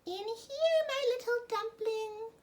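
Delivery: wolf pretending to be grandmother; sly wolf voice. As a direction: coax her in like a disguised wolf. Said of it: "the wolf said softly".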